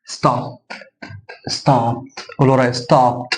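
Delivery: "ستوب" said as "stopt", crisp voiceless T; T ending. Shown as a demonstration. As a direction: finish "ستوب" on a T sound, no D. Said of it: "تي".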